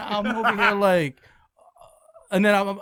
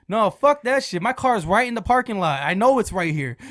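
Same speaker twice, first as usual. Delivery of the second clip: mildly heated protest; mad; 4 semitones higher, 3 dB louder than usual. Retold or imitated. Coworker denying the car part story, mad. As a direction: imitate an irritated man insisting. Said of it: "He was so mad at me".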